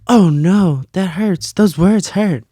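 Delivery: hammed-up pained innocent; mock wounded child. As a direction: whimper like the words physically sting. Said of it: "I'd be like, gasps".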